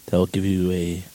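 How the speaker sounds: sultry Latino radio host; seductive radio host. Pretend. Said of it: "your Latino host".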